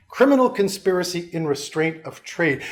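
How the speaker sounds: every word of "Criminal conspiracy in restraint of trade" weighted, with "Criminal" hit hardest; emphatic repeat. Shown as a demonstration. Lecturer to class, repeating the charge with stress on Criminal. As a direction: lean on "Criminal" and let "restraint of trade" fall. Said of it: "repeats the charge for emphasis".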